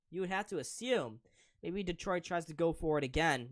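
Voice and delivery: brisk, loud hockey play-by-play; live play-by-play. Acted. Stream commentator calling the Sabres game live for viewers. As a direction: call the game as it happens.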